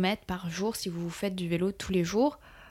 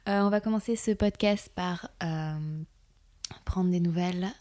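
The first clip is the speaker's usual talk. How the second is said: sensual voice. Real, not acted. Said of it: "pourquoi tu prends une voix sensuelle comme ça?".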